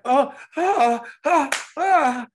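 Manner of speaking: high, loud mock squeal; excited fan squeals. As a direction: imitate a starstruck fan. Imitating the fan's noises.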